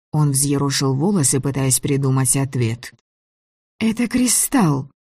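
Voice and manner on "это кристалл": slow, much higher, stunned; slowly. A narrator's reading. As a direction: spell it out slowly. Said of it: "медленно проговорила девушка".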